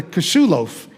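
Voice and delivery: put-on light Bronx accent, "cashew" said kuh-shoo with a swallowed first vowel; hint of a Bronx accent on "cashew loaf". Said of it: "with this Bronx accent".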